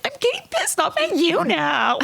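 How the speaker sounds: high-pitched imitation of an irritated castmate; mock angry castmate. Cohost mimicking the angry castmate, high mock voice. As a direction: squeak it out like an offended reality star. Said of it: "she's like".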